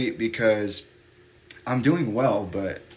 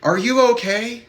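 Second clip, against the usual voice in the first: put-on high, louder child's question; little kid; 14 semitones higher, 7 dB louder than usual. Little kid asking crying stranger, high child's voice. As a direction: imitate a concerned kid checking in. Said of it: "this other little kid came up".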